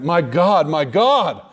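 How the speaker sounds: "My God, my God" with weight on each GOD; emphatic repetition. Shown as a demonstration. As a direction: stress both halves of "My God, my God" equally. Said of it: "he's emphasizing the fact that".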